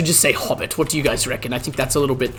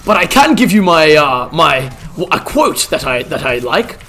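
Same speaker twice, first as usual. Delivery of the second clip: lightly voiced old wizard, a touch higher; hint of a bumbling old wizard; Gandalf role-play; 6 semitones higher, 4 dB louder than usual. Streamer playing Gandalf for chat, lightly voiced old wizard.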